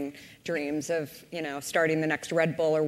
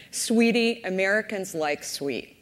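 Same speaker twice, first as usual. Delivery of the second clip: put-on Southern accent; 3 semitones higher than usual. Coke executive on the phone patronizing her, light imitated Southern accent. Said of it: "in this nice Southern accent".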